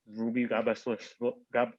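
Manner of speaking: slurred, thick speech; words running together, slurred; slurring words. Real, not acted. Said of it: "I'm slurring my words".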